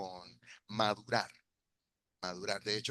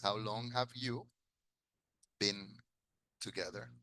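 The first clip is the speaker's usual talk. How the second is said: slow model sentence. Shown as a demonstration. Teacher modelling the question for students. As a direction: say How long have you slowly, word by word. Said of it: "Se invierte el have con el sujeto".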